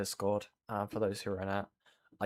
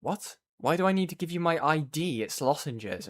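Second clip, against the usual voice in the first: incredulous; 5 semitones higher than usual. Retold or imitated. Retold disbelief at ID request.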